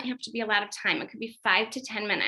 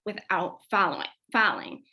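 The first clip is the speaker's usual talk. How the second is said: lightly awed praise. Shown as a demonstration. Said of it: "you are just in awe".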